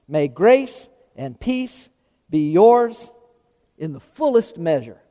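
measured public Bible reading; scripture reading. Real, not acted. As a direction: read it out phrase by phrase, with pauses between. Reads scripture aloud to congregation.

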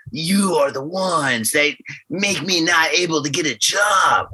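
mock cool-guy shout of a quote. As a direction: play it as a hammy cool tough line. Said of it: "he said in his cool voice".

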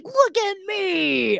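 put-on high, drawn-out gleeful kid call; sing-out childish boast; mock show-off. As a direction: crow it like a little brother showing off. Voicing show-off kid brother on rollerblades.

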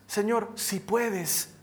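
slow, drawn-out appeal from a father; hesitant plea. Acted. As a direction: plead slowly, unsure of the answer. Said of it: "Jesús habla con el padre del muchacho". (súplica lenta y vacilante de un padre)

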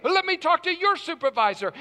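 re-enacted irate caller, high and loud; angry demand. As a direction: demand it like a fed-up customer. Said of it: "My tone of voice was angry".

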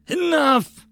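high, loud interjection; angry outburst. A narrator's reading. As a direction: cut her off sharply. Lord cuts off the hostess angrily.

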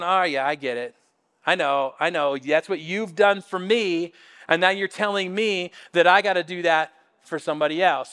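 low, subdued dawning realization; reluctant understanding. Acted. Peter reluctantly gets the point.

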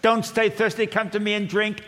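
high, loud call to drink; loud invitation. Acted. Preacher paraphrasing Jesus, calling out high and loud. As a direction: plead with them to come. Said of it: "In other words".

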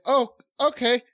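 feigned understanding. Retold or imitated. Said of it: "I'm just like".

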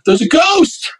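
high-pitched panicked mock scream. Startled roommate crying out about a ghost, mock screaming. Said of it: "he starts screaming".

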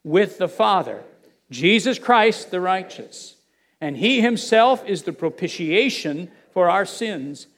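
slow, deliberate scripture reading; slow reading aloud. Real, not acted. Preacher leads listeners through First John, reading slowly aloud. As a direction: read it out slowly, phrase by phrase. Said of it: "Let's read it slowly and, and out loud".

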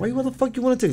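high, loud mock scolding; retold loud cussing; angry cussing. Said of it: "She's cussing, like, loud".

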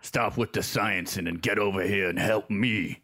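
Thing voice. Acted. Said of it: "I like that".

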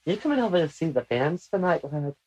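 playful put-on Scottish brogue; mock Scottish accent. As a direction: invite a pal out in a joking Scottish accent. Joking as a Highlander after kilt talk.

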